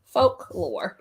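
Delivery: FOLKLORE in two clear, drawn-out syllables; careful pronunciation. Shown as a demonstration. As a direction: model "Folklore" carefully as folk, then lore. Models the word she can't say.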